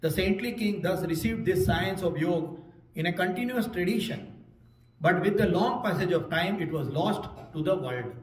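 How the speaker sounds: very slow, measured English reading; reading a translation. Shown as a demonstration. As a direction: read it out word by word. Reads the translation aloud. (अनुवाद का धीमा पाठ)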